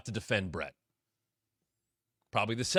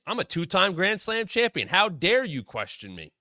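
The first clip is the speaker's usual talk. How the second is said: indignant Miz; 6 semitones higher than usual. Retold or imitated. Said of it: "Miz gets all fired up".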